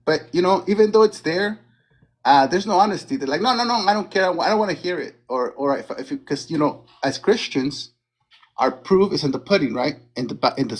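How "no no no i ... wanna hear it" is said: higher-pitched imitation of stubborn refusers; acted-out dismissive protest; mock refusal. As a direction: imitate someone waving an argument away. Acts out opponents refusing to listen.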